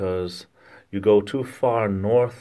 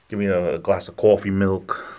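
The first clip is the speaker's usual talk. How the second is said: broad Rhode Island CAW-fee; Rhode Island aw sound. Shown as a demonstration. Local orders coffee milk, Rhode Island accent. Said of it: "We do a lot of that aw sound down here".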